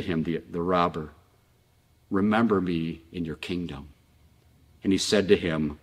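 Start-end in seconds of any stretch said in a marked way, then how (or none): 2.1-3.9 softly retold humble request; humble plea. Dying robber to Jesus, quiet and humble. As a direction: ask it low and softly, as a plea.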